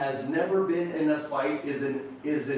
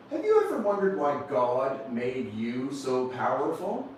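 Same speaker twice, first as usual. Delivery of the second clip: wondering father. Retold or imitated. Father solemnly asks his young son.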